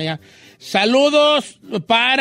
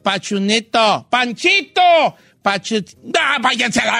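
a light, slow imitation of a co-host fumbling names; imitating the Gilbertona. Teasing a co-host about always mangling names, lightly imitated. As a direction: mimic a co-host mangling Panchito. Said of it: "Así es la Gilbertona".

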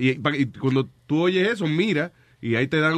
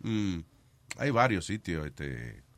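thinking hmm; 11 semitones lower, 9 dB quieter, slower than usual. Real, not acted. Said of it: "déjame pensar qué sitio es".

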